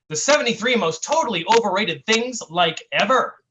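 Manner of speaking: lively mock-clickbait read; satirical article reading. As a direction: perform a breathless-teen listicle with punched emphasis. Reads own satirical internet article.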